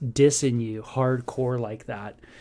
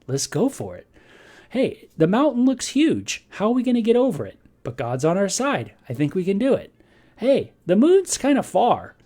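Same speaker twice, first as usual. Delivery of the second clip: upbeat and higher, building confidence; eager rallying cry; 6 semitones higher, 4 dB louder than usual. Retold or imitated. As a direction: cheer your friend on against the giant. Jonathan and David rallying with faith.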